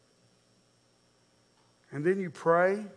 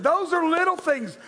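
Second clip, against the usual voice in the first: raised, earnest preaching voice; emphatic preaching; 11 semitones higher, 5 dB louder than usual. Real, not acted. Preacher telling the congregation to listen, emphatic and earnest. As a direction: press the point home, high but controlled. Restates it earnestly after comic outburst.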